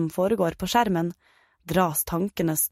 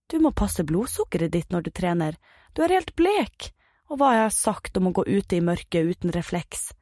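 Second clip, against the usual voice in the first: worried mother. Acted. Mum fussing over her pale son after training, mild worried mother. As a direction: scold gently, rising sharply on the word helt.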